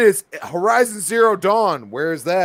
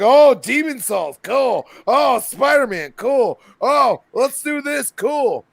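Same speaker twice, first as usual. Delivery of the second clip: mock excited then bored; 3 semitones higher, much slower than usual. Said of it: "it's like".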